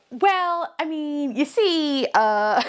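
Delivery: high, stammering backtrack; mock flustered Lindsay. Lindsay stalling for the producer, high and flustered. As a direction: fumble for an excuse.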